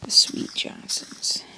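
slow tender whisper of the name; sweetly whispered. Pretend. Gamer apologizing to potatoes, tender slow whisper. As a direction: coo it like a pet name. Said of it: "I can't say Johnsons like that".

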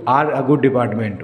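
slow, deliberate corrected phrase; slow teaching correction. Shown as a demonstration. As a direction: lay the right answer down slowly. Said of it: "तो is नहीं लगाओगे".

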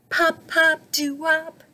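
high, popping fish voice; bubbling fish. A narrator's reading. Fish flips up to join the band, high bubbly voice. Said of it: "she bubbled".

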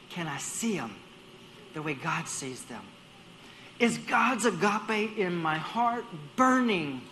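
normal talking voice

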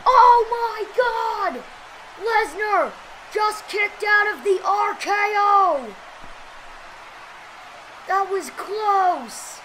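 stunned, shouting ringside call; wrestling commentator. Acted. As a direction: yell the near-fall in disbelief. Live wrestling match play-by-play.

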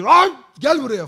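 shouting after the runaway dog, high and loud; calling a fleeing dog at full voice; retold shout. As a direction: yell Lan gel buraya, slow and stretched. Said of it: "falan diye bağırdım böyle".

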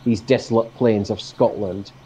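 reciting a poem; poem reading. Acted. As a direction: recite it like verse. Reads second poem aloud.

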